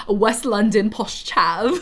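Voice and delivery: a hint of West London posh chav accent; lightly put-on West London accent, laugh at the end. Shown as a demonstration. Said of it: "my current accent just sounds like".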